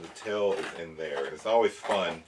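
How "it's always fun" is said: mildly sarcastic, punching a word or two; feigned enjoyment of an annoying chore; dry mock enthusiasm. Real, not acted. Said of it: "That's sarcasm".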